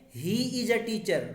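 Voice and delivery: very slow, each word set apart; slow reading. Shown as a demonstration. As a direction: drag the sentence out for students to follow. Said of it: "जैसे sentence पढ़िए".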